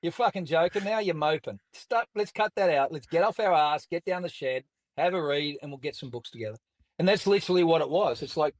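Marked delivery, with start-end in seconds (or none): 0.0-6.6 lightly voiced God as a higher-pitched Aussie mate; a hint of a no-nonsense teammate, pitched up; blunt rugby-player God. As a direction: imitate God giving a matey telling-off. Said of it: "My God turns around and goes".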